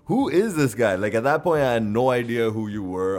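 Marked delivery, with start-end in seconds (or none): 0.0-0.9 higher-pitched, mock-baffled question; amazed reaction. Fan recalls seeing an unknown funny friend, amazed. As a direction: retell being baffled by a stranger.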